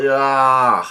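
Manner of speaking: drawn-out mock cry at talking volume; half-hearted yell. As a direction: imitate a long yell without really shouting. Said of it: "yell out in pa-, yell".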